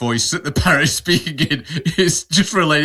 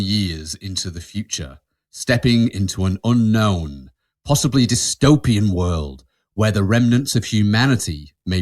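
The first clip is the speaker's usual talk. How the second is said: measured, portentous scenario read with long pauses; dramatic question read; 6 semitones lower than usual. Acted. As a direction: pose the dilemma like a narrator. Reads out would-you-rather question theatrically.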